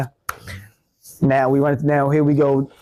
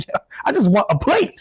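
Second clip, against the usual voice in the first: pleading whine; 11 semitones higher than usual. Retold or imitated. Retold plea at buffet line.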